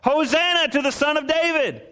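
put-on lifted high like children chanting praise; children's cry. Preacher voicing children singing to Jesus, high chant. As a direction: voice it like kids singing in the temple. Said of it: "They just start singing".

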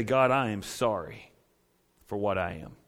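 whisper-close plea of a broken sinner; humble prayer. Shown as a demonstration. Sinner lifting hands to God, soft and humble. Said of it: "and say".

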